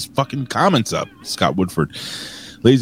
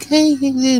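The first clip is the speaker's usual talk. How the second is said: high, bright-eyed mock sweet hello; sweet friendly greeting. Imitating a friend he thought was sweet, high mock greeting. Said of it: "I thought she was like".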